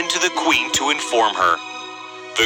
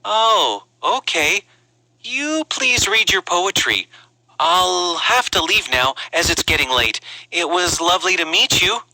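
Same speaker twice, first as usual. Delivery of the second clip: higher, unhurried princely voice; polite prince excusing himself; 4 semitones higher than usual. Acted. Prince takes leave of the princess, politely awkward. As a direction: back out politely, pitched up.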